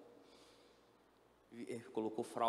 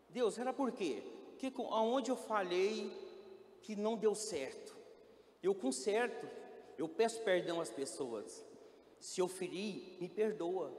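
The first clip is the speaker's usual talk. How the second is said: raised, pleading voice begging God for answers; pleading cry to God; 7 semitones higher, 4 dB louder than usual. Retold or imitated. Patient pleading with God, raised anguished voice. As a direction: cry out to God, higher and louder. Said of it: "eu falei".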